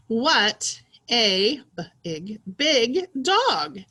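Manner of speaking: slow, emphatic, excited read-aloud. Shown as a demonstration. Teacher modelling an exclamation mark for pupils, excited. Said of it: "say it in an excited way".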